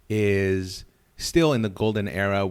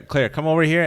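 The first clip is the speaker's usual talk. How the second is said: raised, higher calling voice; real summons, pitched up; calling someone over; 7 semitones higher, 5 dB louder, faster than usual. Real, not acted. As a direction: call your wife over to join you. Calls wife over to microphone.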